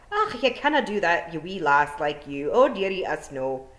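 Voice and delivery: tut-tut like a worried wee Scot; imagined Feegle. Pretend. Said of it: "What she had been expecting was more like".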